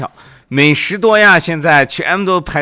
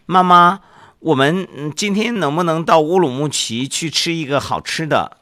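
put-on higher, eager kid's voice; child voice; 6 semitones higher than usual. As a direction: ask mom like a little boy. Boy Xiaoming asks mother.

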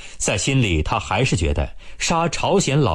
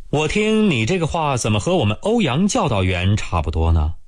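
有点不高兴; 3 semitones higher than usual. Acted. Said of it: "吴铁锤有点不高兴".

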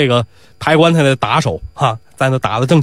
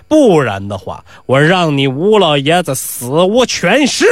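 menacing threat; slower than usual. Acted. Pi Wu threatens funeral steward.

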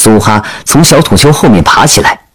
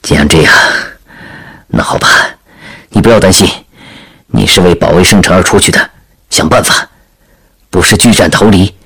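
low, subdued, reluctant consent; grave resignation; 3 semitones lower than usual. Acted. Veteran reluctantly letting the princess go, grave low voice. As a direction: give in heavily, keeping it low. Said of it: "脸上的沧桑变得更加凝重".

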